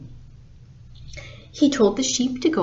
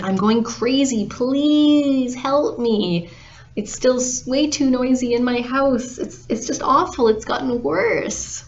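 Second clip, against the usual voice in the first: whining complaint with a stretched beg; acted exasperated pleading; desperate plea; 3 semitones higher than usual. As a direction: beg like someone at wit's end. Farmer begs wise woman for help.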